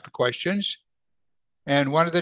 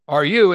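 YOU stressed, louder; emphatic; 3 semitones higher, 7 dB louder than usual. Acted. Pilate asks Jesus, emphatic YOU. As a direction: punch the word YOU. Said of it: "emphatically stated".

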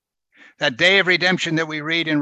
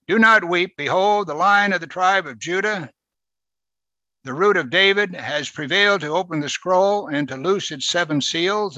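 proclaiming elder; 4 semitones higher than usual. Retold or imitated. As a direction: announce the Lion of Judah. Elder comforting John in scripture.

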